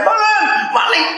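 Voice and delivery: high-pitched mock cry for help; mock alarm cry. Preacher imagining a homeowner spotting a thief, mock alarm cry. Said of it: "saya nggak akan teriak".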